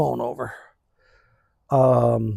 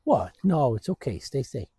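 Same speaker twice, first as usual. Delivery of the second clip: much softer, quietly asking the whining dog; calm the whining dog down softly; hushed dog talk; 7 dB quieter, faster than usual. Real, not acted.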